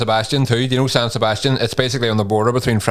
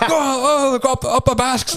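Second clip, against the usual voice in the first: put-on drunken cheer; 13 semitones higher, slower than usual.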